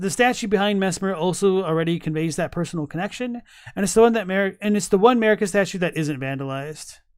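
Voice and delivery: ordinary talk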